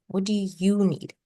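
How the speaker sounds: slow, each word set apart; slow gentle question. Shown as a demonstration. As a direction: ask it slowly and sincerely. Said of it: "Don't have to be like me".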